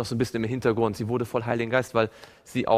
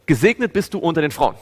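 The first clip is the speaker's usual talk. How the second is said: louder, proclaiming it out; loud blessing; 2 semitones higher, 5 dB louder than usual. Shown as a demonstration. Preacher voicing Elisabeth calling to Maria, loud proclaiming. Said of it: "mit lauter Stimme".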